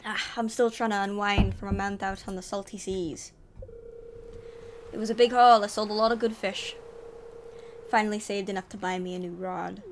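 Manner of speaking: booming ahoy in a vaguely Scottish sailor voice; sea dog accent. Acted. Willy the fisherman greets the newcomer in a mock Scottish accent. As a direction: play a gruff old fisherman, half Scottish. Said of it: "It might be Scottish".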